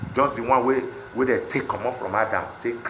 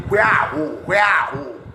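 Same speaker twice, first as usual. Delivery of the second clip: high, louder mock voice of people scrambling; mocking the crowd; 5 semitones higher, 5 dB louder, much slower than usual. Mimicking people hunting for palliatives, in a mocking tone. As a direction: ape the greedy crowd chasing palliatives. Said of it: "everybody dey".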